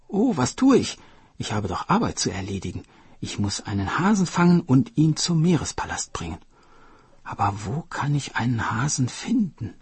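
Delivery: sudden high Oh then quick fretting; startled turtle. Acted. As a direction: catch yourself, flustered. Turtle remembers her task.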